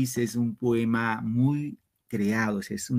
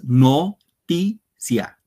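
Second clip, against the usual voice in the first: "Noticia" very slow and louder, "ti" leaned on; stressed demo; 2 semitones higher, 6 dB louder, much slower than usual. Shown as a demonstration. Teacher showing pupils where the stress falls, very slow. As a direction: drag out "Noticia", hitting "ti". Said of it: "El acento va en ti".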